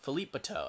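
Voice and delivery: Philippe Bateau as "fi-LEEP buh-TOH"; preferred pronunciation. Shown as a demonstration. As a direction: say Philippe Bateau French-style, Bateau ending in "TOH". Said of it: "that's how it's pronounced".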